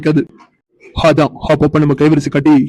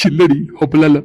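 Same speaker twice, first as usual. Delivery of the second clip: laughing. Acted. Husband teasing his wife, laughing as he denies it.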